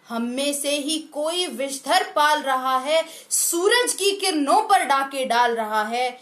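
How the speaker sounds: declaimed verse with lifted repeated lines; poem recitation. Acted. Presenter calls countrymen to take stock, declaimed poem recitation. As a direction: recite it as a rousing call.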